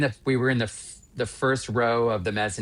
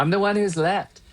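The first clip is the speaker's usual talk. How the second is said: laughing through the line, a little higher; 8 semitones higher, 4 dB louder than usual. Real, not acted. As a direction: chuckle it out. Laughing at being left behind.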